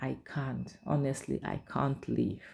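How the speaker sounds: soft, hushed, lightly voiced wife; quiet refusal. Wife telling her friend she cannot leave, quiet. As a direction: say it softly, worn down.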